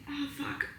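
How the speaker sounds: embarrassed whispered curse in public; inner whisper. Retold or imitated. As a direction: breathe it out under your breath in dismay. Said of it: "And I just think".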